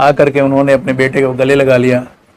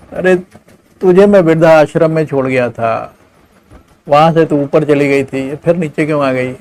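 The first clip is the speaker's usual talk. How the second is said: raised, whiny excuses to mother; a selfish son squirming out of it; dismayed son. Acted. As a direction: son fobbing off his mother, raised and pleading. Son voiced in story.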